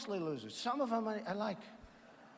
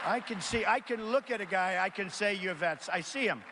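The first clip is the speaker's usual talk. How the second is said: projecting loudly to the crowd; loud rally shout; 3 semitones higher, 3 dB louder than usual. Real, not acted. Speaker to the veterans in the crowd, loud and proud. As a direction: belt it out to the hall.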